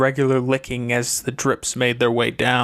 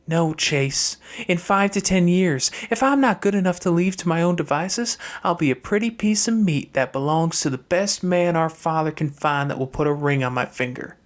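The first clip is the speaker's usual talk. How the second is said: lightly higher sister voice, bitter; a hint of higher pitch, grim and blunt; Fernanda's voice; 4 semitones higher than usual. Fernanda tells Chase her fate, lightly higher sister voice.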